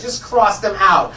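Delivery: loud, slow order to cross them out; firm order. Retold or imitated. A student orders classmates crossed out, loud and slow. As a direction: lay down the rule loudly and slowly.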